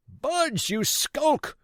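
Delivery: very high, loud scorn; angry cry. Acted. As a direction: sneer the word back. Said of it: "cried Pugh".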